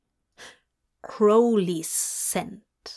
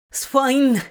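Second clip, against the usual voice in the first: higher, louder flustered squeak; squeaky; 4 semitones higher, 5 dB louder than usual. Acted. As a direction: squeak it out, embarrassed. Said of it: "he squeaked".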